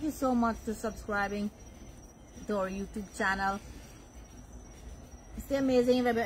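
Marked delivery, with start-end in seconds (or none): 5.5-6.3 chewing while talking; talking through a mouthful of food; mouth full. Real, not acted. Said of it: "I'm still chewing".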